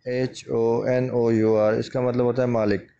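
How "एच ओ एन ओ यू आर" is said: letters spelt out slowly one by one; slow spelling. Shown as a demonstration. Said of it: "इसकी spelling है". (धीरे-धीरे spelling बोलें)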